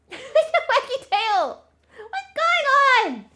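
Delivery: very high, loud, drawn-out squeals; high-pitched dog talk. Real, not acted. Exciting the dog's waggy tail, high-pitched voice. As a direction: squeal slowly and giddily at the dog. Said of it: "speak in a really high-pitched voice".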